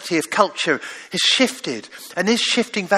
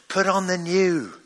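gentle father. Pretend. God as father gently urging his child to change. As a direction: coax it kindly, not commanding. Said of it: "where your father might be saying to you".

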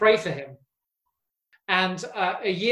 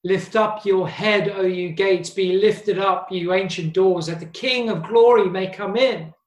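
proclaiming scripture; 4 dB louder than usual. Acted. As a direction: lift the verse up like a psalm. A prayer and a song.

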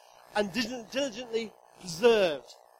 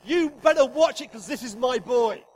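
warning; 6 dB louder than usual. Acted. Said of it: "He says to the powers of darkness".

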